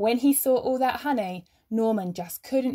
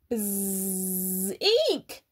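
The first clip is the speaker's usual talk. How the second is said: squeal. Acted. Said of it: "squealed the bear".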